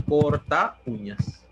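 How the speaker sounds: slow spelling-out. Shown as a demonstration. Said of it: "¿Qué dice corta uñas?".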